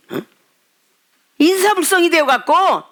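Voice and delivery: ordinary talk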